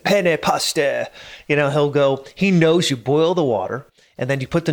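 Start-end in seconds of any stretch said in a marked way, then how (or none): 0.0-1.1 fake Italian accent. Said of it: "he'll put on his fake Italian accent".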